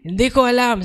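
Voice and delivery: high, teary imitation of the brother; crying brother. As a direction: let it crack like a man in tears. (umiiyak, mataas na boses)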